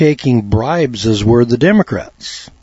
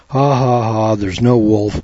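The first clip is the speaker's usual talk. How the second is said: put-on spoken, drawn-out ha-ha-ha of a taunting boy; mock laughing. Boy laughing at the fooled townspeople, mock laughing. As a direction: imitate a boy's laugh, slowly and half-heartedly. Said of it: "the little boy laughed at him and said".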